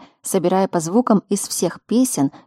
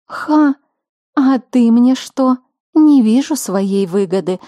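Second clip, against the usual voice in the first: eager grandma; 4 semitones higher, 4 dB louder, slower than usual. A narrator's reading. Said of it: "загорелась идеей Дара Виара".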